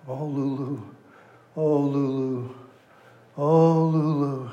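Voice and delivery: a lightly voiced lovesick inmate, drawn-out and slow at the end; lovesick inmate moaning. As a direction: moan his lost bride's name, softly at first. Asylum inmate voiced in joke.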